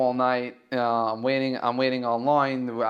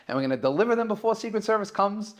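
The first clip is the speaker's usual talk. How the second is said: upbeat reassurance; 5 semitones higher, faster than usual. Retold or imitated.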